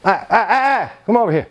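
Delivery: lightly voiced mumbling ahs, a hint of a gruff old gardener; Tony's tree language. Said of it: "He's talking to it in his little Tony language".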